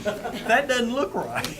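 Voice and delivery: slow, high, doubtful "that doesn't look right"; drawn-out puzzled disbelief; skeptical inner voice. Retold or imitated. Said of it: "But I'm like".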